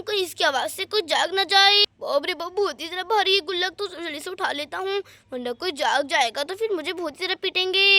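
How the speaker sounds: a thief plotting as he goes; sneaky thief. Acted. Thief creeping off with the piggy bank, sneaky and wary.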